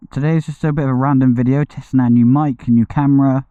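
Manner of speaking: breathless, panting between words; short of breath after exertion. Real, not acted. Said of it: "I'm very out of breath".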